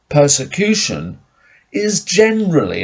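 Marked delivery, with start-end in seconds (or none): 2.0-2.8 "generally" pitched higher with a long falling glide; stress on generally. Real, not acted. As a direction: lean firmly on "generally". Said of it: "I would emphasize generally".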